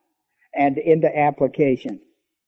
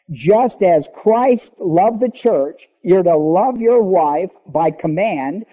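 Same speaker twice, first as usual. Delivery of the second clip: slow preaching climax; 2 semitones higher, slower than usual. Acted. Preacher pressing husbands to love like Christ, slow and rising. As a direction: lean into every word of the comparison.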